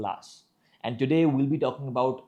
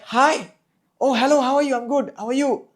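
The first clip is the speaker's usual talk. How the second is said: very high, louder greeting; high pitch; 11 semitones higher, 5 dB louder than usual. Shown as a demonstration. Coach explaining pitch further, high-pitched. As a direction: pitch the hello way up. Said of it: "So pitch is like".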